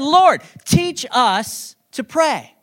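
a slow, drawn-out "Lord, teach us to pray" in a pretend British accent; the pastor playfully imagines the disciple with a British accent, speaking slowly; mock British accent. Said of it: "I don't know if he had a British accent".

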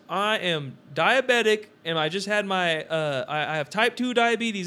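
imitated stranger. Stranger explaining himself to a shopper, mock declaring. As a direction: imitate a man announcing his condition.

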